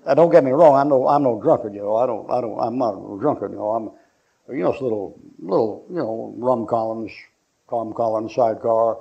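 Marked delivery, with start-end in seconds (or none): none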